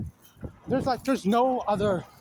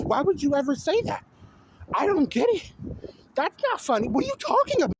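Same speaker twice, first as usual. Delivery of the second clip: exasperated outburst; 4 semitones higher than usual. Real, not acted. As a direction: rant at the screen in disbelief. Outraged rant about the scene.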